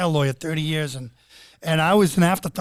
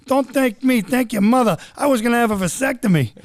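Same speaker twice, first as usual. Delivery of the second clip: imitating dad; 5 semitones higher than usual. Father voiced in story.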